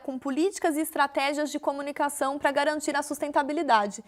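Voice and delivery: upbeat broadcast read over music; TV presenter intro. Acted. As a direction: welcome viewers back like a show host. Host reopens show over music.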